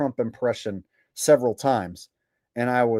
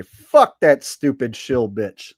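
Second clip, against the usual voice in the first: mock defiance; 5 dB louder, slower than usual. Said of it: "Whatever shall I do besides say".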